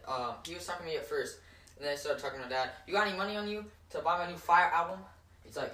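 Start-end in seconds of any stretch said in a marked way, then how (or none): 2.9-5.0 fast, higher sales pitch; quick, louder street-seller patter; street hawker. Retold or imitated. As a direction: imitate a hustler rattling off his pitch. Seller pitches album to father.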